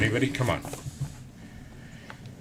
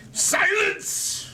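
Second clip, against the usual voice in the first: booming command for silence. Pretend. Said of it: "me, like, commanding respect".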